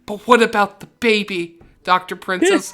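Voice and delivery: high, loud plea breaking into laughter; dwarf pleading with the doctor; laughing pleading dwarf. Acted. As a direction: beg through laughter. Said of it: "He's like".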